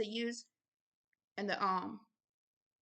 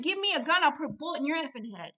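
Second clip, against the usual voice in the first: higher-pitched angry retort, speeding up; cussing it out; 5 semitones higher, 4 dB louder than usual. Retold or imitated. Minister re-enacting cussing out the thought, angry. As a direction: tell the enemy off, fast and heated. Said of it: "I cussed it. I said".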